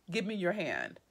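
low, quiet plea; soft, emotional. A narrator's reading. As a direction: drop your voice low and ask softly. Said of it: "He speaks softly, his voice with emotion".

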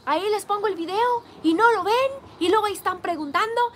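high, loud, fast mock rant; hammed-up grumpy complaint, poking fun; mocking Carlos angry. Streamer teasing Carlos by imitating his angry rant. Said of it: "te pones".

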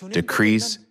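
ordinary talk, nothing marked

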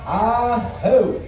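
measured arena announcer address; powwow emcee. Real, not acted. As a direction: speak to the whole arena, unhurried. Emcee speaks over the arena PA.

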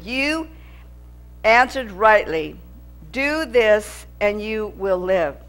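slow, measured Bible reading; scripture reading. Acted. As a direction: read the verses slowly and solemnly. Reads scripture aloud.

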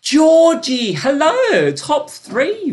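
high, loud cheery hello; excited greeting. Real, not acted. Host greeting a player on the leaderboard, high and excited. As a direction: greet her like a star arriving.

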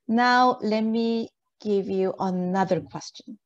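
normal talking voice

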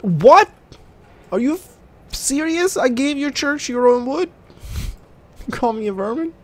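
can't believe they said that; outraged disbelief. Real, not acted. Outraged at in-game insult.

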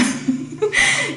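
short high laugh. Real, not acted. Reacts to the scene.

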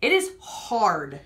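drawn out slowly; slow and deliberate. Real, not acted. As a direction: drag the words out. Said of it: "It's a hard-boiled egg".

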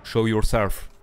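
put-on French accent. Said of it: "je crois que mon accent, il est éclaté".

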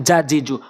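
"জা, জি, জু" with a plain j sound; mispronounced Dhal. Shown as a demonstration. Teacher showing learners the error, plain j sound. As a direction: say "জা, জি, জু" with j, tongue off the teeth. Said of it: "তাহলে হবে না".

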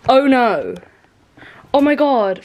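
high, flustered disbelief; shocked. Real, not acted. Just spilled water.

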